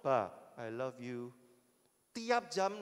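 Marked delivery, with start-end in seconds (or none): 0.0-1.3 slow, low robot voice. Pretend. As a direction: stretch "Ba, I love you" slowly like a machine. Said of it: "dia akan ada di hadapanmu". (suara robot lambat dan rendah)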